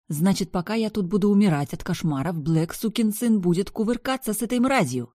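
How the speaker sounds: raging at Black; furious rant. Acted. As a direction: spit out the jealous rage.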